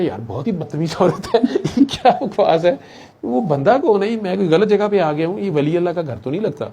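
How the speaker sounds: laughing disbelief. Retold or imitated. Visitor laughing in disbelief at the wife's abuse. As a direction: laugh it out, pitch climbing in disbelief.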